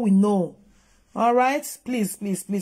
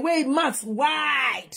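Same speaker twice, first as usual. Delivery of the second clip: mock shout; 3 semitones higher, much slower than usual. Real, not acted. Ranting at scammer in clip.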